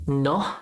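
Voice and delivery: "no" with a short, pure o and no glide; different "no". Shown as a demonstration. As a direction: try "no" cut to a short o. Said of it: "say no a different way".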